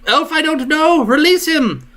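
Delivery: high yelled demand; guard shouting. Acted.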